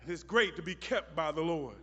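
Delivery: ordinary talk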